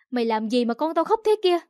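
mildly angry stepmother demanding an answer. Acted. Stepmother confronts girl over crying baby.

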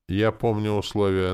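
lilting, sweetly teasing line; a touch of sing-song coyness; singsong. A narrator's reading. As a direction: sing it out playfully. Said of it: "напевно проговорила Настя".

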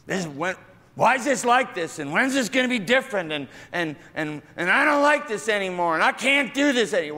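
a fed-up person complaining; mock complaining. Complainer voiced.

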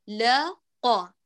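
لا light then قا heavy, slow; letter demo, slow. Shown as a demonstration. Teacher spelling خلق slowly for students. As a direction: stretch لا thin and قا heavy. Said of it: "فمثلًا كلمة خلق".

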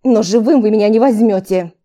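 loud hissing vampire cry; feral vampire. A narrator's reading. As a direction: hiss it out like a cornered beast. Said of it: "прошипел вампир".

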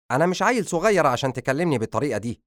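high, fast objection; indignant son. Acted. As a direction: push back against being treated as a child. Son objects to being scolded.

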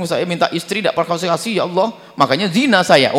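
protesting prayer. Retold or imitated. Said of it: "Jadi ini protes sama Allah".

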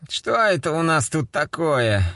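sing-song smoky voice.

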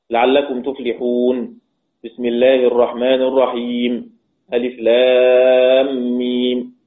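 slow tarteel, ألف لام ميم stretched in long chanted vowels; Quran recitation with pauses. Shown as a demonstration. Teacher demonstrating stopping after each part, chanted slowly. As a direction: hold the madd on لام. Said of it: "الرأي الثاني القطع فقط".

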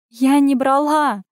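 loud, slow, high cry of denial; desperate protest. A narrator's reading. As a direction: shout your innocence near tears. Nurse denies, then cries.

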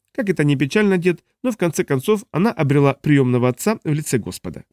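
put-on smug young man. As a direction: play the cocky grandson. Dun speaks of mother.

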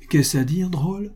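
indignant, with a sharp rise on drôle; outraged and stunned at once; wrath and astonishment. A narrator's reading. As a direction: gentleman rebuking the insolent porter. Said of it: "un mélange de courroux et de stupeur".

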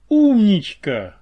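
громко и медленно, с восторгом; протянуть радостно, во весь голос. A narrator's reading. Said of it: "обрадовался Помпасик". (радостное «Умничка»)

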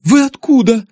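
high, startled question; high startled voice asking where he came from; shocked question. Acted. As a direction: still reeling from the surprise. Daughter shocked by father.

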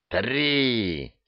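usual speaking voice

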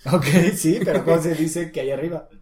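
playful exclaimed question; loud teasing retort. Real, not acted. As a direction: burst out in amused insistence. Teasing retort to student's literal answer.

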